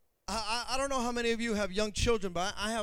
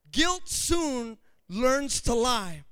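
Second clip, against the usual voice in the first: slow repeat; much slower than usual. Shown as a demonstration.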